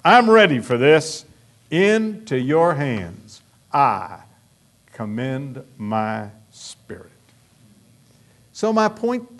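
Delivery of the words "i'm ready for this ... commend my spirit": imagined dying prayer. Pretend. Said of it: "you can say".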